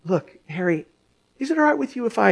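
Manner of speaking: quiet and hesitant; softly. Retold or imitated. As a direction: speak it gently, almost timid. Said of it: "she slowly and softly said".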